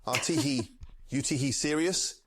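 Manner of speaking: lightly voiced chef, tee hee between words. Streamer answers a chat request in light chef voice. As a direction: keep a tee hee going. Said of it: "please add tee hee at the start of every sentence".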